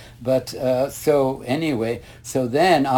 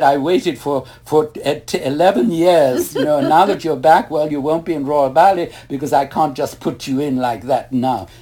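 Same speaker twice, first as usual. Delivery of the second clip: louder, rising reproach from the ballet director; a retold, raised-voice reprimand; exasperated scolding; 3 semitones higher, 7 dB louder than usual. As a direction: tell him off for making her wait. Madam scolding about eleven years.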